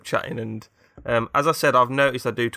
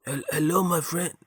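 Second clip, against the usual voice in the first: higher-pitched mock French greeting; French accent; 6 semitones higher than usual. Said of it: "He's French, isn't he?".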